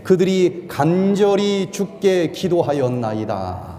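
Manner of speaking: slow, measured recitation of scripture; measured congregational reading; slow unison scripture reading. Real, not acted. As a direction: read it together, slow and even. Congregation reads scripture together.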